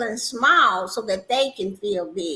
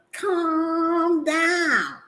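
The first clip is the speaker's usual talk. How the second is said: mocking condescension; 5 semitones higher than usual. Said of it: "pat somebody on the head".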